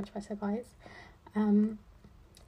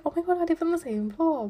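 higher, louder gushing; mock-gush with surprise; retelling her reply to a neighbour, excited; 8 semitones higher, 5 dB louder than usual.

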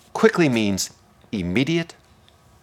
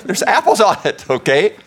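mock duh; 11 semitones higher, 7 dB louder than usual. Real, not acted. Mocking obvious answer.

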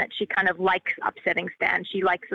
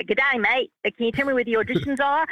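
quick, higher Australian twang, lightly imitated; a hint of a friendly Australian asking the way; Australian accent; 5 semitones higher than usual. Director imitates Australian actor asking for auditions, light Australian accent. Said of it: "I know that accent".

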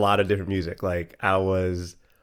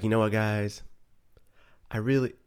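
sultry voice imitating a singer. Retold or imitated. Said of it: "I put on a sultry voice as soon as I did an Usher impression".

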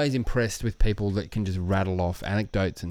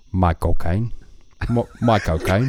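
Scottish Michael Caine; 3 dB louder than usual. Shown as a demonstration. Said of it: "it doesn't work for a Scottish guy".

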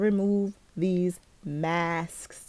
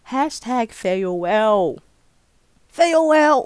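playful farewell; 3 semitones higher, 8 dB louder, slower than usual. Pretend. Playful sign-off, loud drawn out.

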